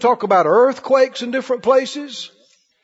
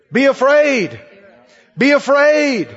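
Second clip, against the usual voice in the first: higher, emphatic imitation of a scaremongering preacher; mock fear preaching; 4 semitones higher, 3 dB louder, slower than usual. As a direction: drive home the warning. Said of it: "What are they saying without saying it?".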